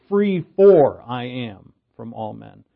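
weighty, drawn-out "Free for" up front; stress on Free for. Shown as a demonstration. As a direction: hit "Free" and "for" hard, then drop. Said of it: "He's emphasizing freedom. He puts free first".

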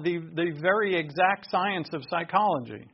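mock-earnest emphasis; lightly sarcastic lecturing. Real, not acted. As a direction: say it as if you believed it, with light sarcasm. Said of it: "I'm being sarcastic there".

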